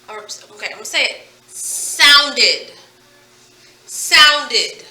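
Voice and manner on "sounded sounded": Sounded loud, in two clear syllables, sound-ed; clear ED ending. Shown as a demonstration. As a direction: sound out the full ED at the end of Sounded. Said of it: "We heard the ed sound".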